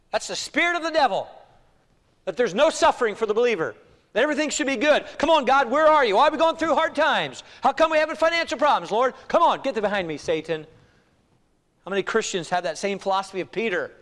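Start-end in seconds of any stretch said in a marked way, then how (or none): 5.2-10.6 mock complaint to God, high and loud; raised, high-pitched protest; exasperated complaint. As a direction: imitate a put-out believer demanding answers. Voices believers complaining to God.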